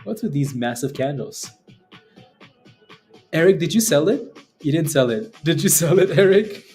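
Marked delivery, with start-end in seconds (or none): 3.3-6.6 loud cocky finance bro. Real, not acted. Calling out to chat member.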